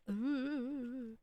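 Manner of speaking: drawn-out, wobbling ooh; wavering ooh. Shown as a demonstration. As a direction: hold a quavering ghostly ooh. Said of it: "But I would not say".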